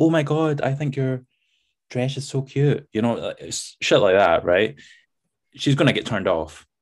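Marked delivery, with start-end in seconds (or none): 0.0-2.9 very feminine, high speaking voice. Showing how a man might botch talking to her, feminine voice. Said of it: "you talk in a really feminine voice".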